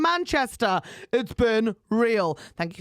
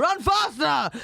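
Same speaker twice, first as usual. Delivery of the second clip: drawn-out comic yell; slow, hammed-up bellow; mock heckling shout; 4 semitones higher, much slower than usual. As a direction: holler it at a rival in jest. Acts out heckling fellow runners.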